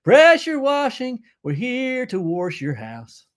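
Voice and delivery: high, punchy ad-jingle opening, easing down; commercial pitch. Pretend. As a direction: sell it like a local TV commercial. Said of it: "I'd make a great commercial".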